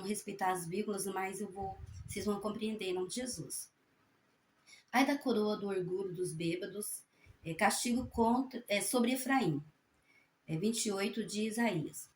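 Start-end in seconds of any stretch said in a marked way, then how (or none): 4.9-9.6 firm, projected reading voice; scripture reading aloud. Real, not acted. Reading Isaiah to fellow believers, solemn scripture reading. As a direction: read it out to the congregation, stressing phrase openings. Reads the Bible passage aloud.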